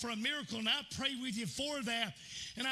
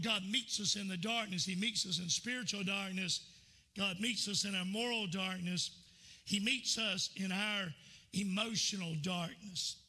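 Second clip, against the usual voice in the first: measured preaching cadence, each line landing; 2 semitones lower than usual. Acted. Preaching the darkness points.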